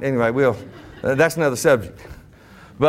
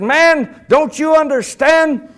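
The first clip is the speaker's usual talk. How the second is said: high, loud, drawn-out plea; urgent, stretched exclamation; excited old preacher; 8 semitones higher, 5 dB louder, much slower than usual. Retold or imitated. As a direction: plead like a worked-up preacher. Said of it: "why in the world do you get so excited".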